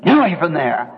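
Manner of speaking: half-hearted holler, first word punched; imitated shout, jumping up at the start; retold holler. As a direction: call out a sharp warning, mildly acted. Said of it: "And I hollered".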